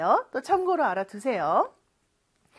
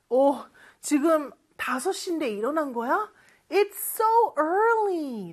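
surprised wake-up; 4 semitones higher, slower than usual. Acted. Parent surprised at early waking.

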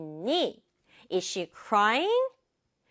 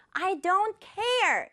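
a drawn-out squawk of refusal without real volume; retold yell; 8 semitones higher, much slower than usual. Jiyul snapping at her brother, mild mock yell. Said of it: "소리를 빽 질렀어요".

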